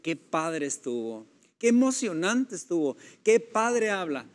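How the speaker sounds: enthusiastic but empty praise; gushing praise. Retold or imitated. Listener leaving a sermon, gushing but empty. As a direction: rave about it with nothing behind it. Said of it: "y al final decir".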